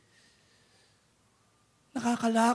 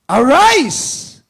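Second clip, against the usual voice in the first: a sudden loud call, pitched up; loud command; 5 semitones higher, 13 dB louder than usual. Acted. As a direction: call the dead son to rise. Jesus calls the dead man.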